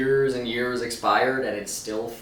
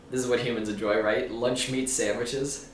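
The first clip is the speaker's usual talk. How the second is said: alien voice. Shown as a demonstration. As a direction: sound out each word like an alien. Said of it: "It sounds like an alien saying that".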